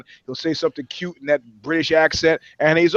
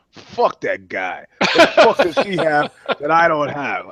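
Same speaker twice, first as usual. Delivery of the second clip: resentful local guy; 3 dB louder than usual. Retold or imitated. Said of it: "a guy like me sitting in Katy, Texas, going".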